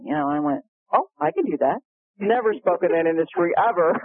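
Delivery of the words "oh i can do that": high, breezy mock confidence; mock-confident. Speaker accepting an unfamiliar industry, mock-confident. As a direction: pitch it up as a too-quick yes. Retold overconfident yes to a job.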